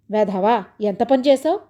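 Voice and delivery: scolding. Acted. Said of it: "తిట్టాడు సౌభాగ్యరావు".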